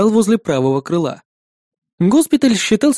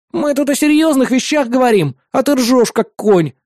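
higher, affronted protest; mildly indignant; 6 semitones higher than usual. A narrator's reading. Friend scolding another for laughing at serious talk, indignant. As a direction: object with a touch of outrage. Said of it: "возмутился Осьминог".

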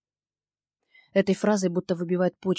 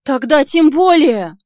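намного выше и громче, медленно; выплюнуть в негодовании; задыхаясь от возмущения; 8 semitones higher, 16 dB louder, slower than usual. Acted. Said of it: "аж задыхаюсь от возмущения". (героиня задыхается от возмущения)

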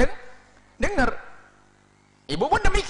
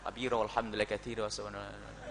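much softer, murmured recitation; hushed mock prayer; 9 semitones lower, 14 dB quieter than usual. Preacher acts a mother praying quietly while watching her child, much softer. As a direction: mumble the prayer under your breath.

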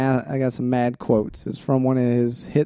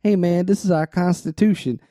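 mock-indignant lyric reading, somewhat raised; motivation voice; 4 semitones higher than usual. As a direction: deliver the lines like a half-joking rant. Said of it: "I'll read it in this voice".

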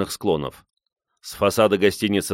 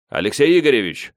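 higher, raised call; 5 semitones higher, 3 dB louder than usual. A narrator's reading. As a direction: call to someone spotted across a crowd. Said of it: "кричит Мурат".

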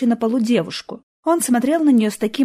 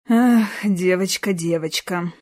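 sighing; slower than usual. Acted. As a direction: sigh it out, pitying. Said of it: "вздохнул он".

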